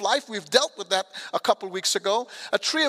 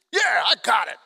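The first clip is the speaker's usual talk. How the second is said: casual brush-off; 3 dB louder than usual. Retold or imitated. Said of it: "Trying to be whatever".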